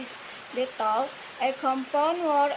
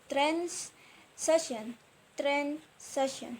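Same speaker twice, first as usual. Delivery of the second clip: "train" stressed in "train station"; stress on first word; 5 dB quieter than usual. Shown as a demonstration. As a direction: lean on "train", let "station" fall away softly. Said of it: "Stress, a placement".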